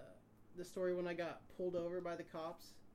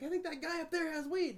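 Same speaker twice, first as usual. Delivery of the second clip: mock snitching voice; 10 semitones higher, 5 dB louder than usual. Joke snitch line.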